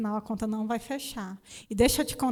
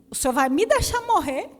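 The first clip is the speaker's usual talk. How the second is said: retold desperate cry; 4 semitones higher, 6 dB louder than usual. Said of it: "Clamei assim".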